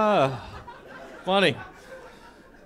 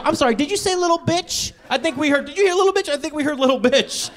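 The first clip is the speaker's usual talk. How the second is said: incredulous; 7 semitones higher than usual. Retold or imitated. Incredulous checking.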